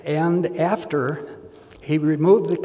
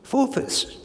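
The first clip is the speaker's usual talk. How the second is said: doctor's verdict; 5 semitones higher than usual. Retold or imitated. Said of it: "he says".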